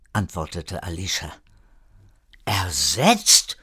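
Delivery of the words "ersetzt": stunned whisper, rising at the end; whispered question. A narrator's reading. Erik echoes Alicia's ominous answer, whispered question. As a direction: whisper the word back in disbelief.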